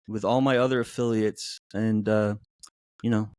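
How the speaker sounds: low, smooth sultry announcer voice. Acted. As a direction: purr it like a late-night ad. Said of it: "It's the sultry voice".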